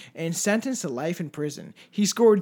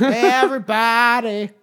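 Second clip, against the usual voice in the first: mock menace; 4 semitones higher, 7 dB louder, slower than usual. Echoing killer's mock quote.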